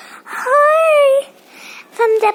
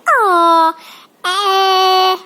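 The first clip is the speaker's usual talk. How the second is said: tongue sticking out; 4 semitones lower than usual. Pretend. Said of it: "stick your tongue out and say".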